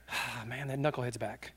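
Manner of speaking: low, soft grumble; quietly exasperated aside; weary dismay. Retold or imitated. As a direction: sigh it under your breath like a fed-up dad. Imagined father unhappy to see son.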